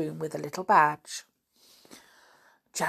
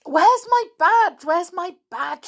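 put-on high, loud, urgent child's cry; loud, high-pitched fluster; frantic searching; 12 semitones higher, 10 dB louder than usual. A narrator's reading. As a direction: frantically voice a girl hunting for something lost. Janet frantically hunts for lost badge.

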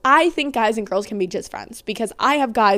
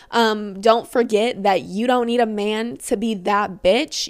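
ordinary delivery

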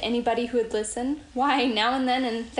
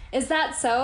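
surprised; 3 semitones higher than usual. Retold or imitated. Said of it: "I said, surprised".

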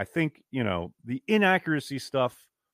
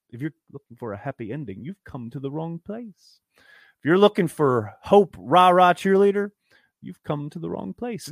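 quoting Tyrion; 3 semitones higher than usual. Retold or imitated. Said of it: "What does Tyrion say?".

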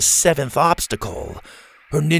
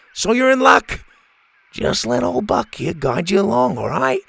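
lightly voiced eager professor; enthusiastic scientist; 5 semitones higher than usual. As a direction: gush about spiders like a fan. Doctor Rex calms Bo.

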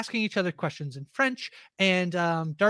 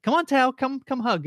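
higher, coaxing call to hug; coaxing Isaac; 7 semitones higher than usual. Retold or imitated. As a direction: coax a friend into a hug. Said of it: "and it's like".

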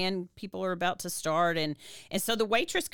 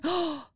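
gasp; 9 semitones higher than usual. Retold or imitated. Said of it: "I remember just going".

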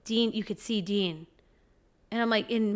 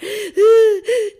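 a loud mock sob gasp, high; crying gasp; 12 semitones higher, 14 dB louder than usual. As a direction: gasp like a bawling toddler. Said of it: "He was crying so hard".

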